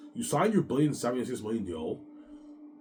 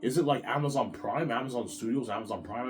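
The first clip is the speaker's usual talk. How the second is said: voicing Peter; 3 semitones higher than usual. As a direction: gasp it out, pitched up. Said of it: "He's like".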